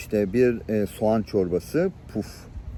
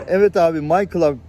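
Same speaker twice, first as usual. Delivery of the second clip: eager star-struck yes; 5 semitones higher, 6 dB louder than usual. Retold or imitated. Eager reply on stage.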